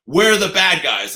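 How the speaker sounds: slow, high, loud mock line; mock cops. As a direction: drag it out as the proud agents. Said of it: "they're like".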